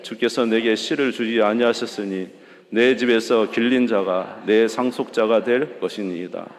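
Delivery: loud, measured reading of scripture; scripture reading aloud. Shown as a demonstration. Preacher leading the congregation through verse three, loud and steady. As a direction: read it out together with the church. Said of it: "시작".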